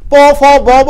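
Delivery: "প, ফ, ব, ব" as separate lip sounds; demonstrating letter sounds. Shown as a demonstration. Teacher showing which organs make speech, sounding out "প, ফ, ব, ব" singly. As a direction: sound out "প, ফ, ব, ব" one by one. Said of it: "প বর্গের ধ্বনিগুলো উচ্চারণ করছি".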